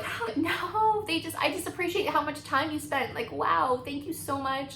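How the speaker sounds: high, bright fake gushing over the work; forced excited laugh. Bride thanking the brow waxer, forced excited gushing. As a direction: cover dismay with eager thanks. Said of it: "made it sound like it was an excited laugh".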